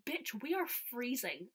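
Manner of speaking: slow, drawn-out retold retort; mock indignant. Cold fan answering the overheated performer, mock indignant. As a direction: stretch it out in mock outrage.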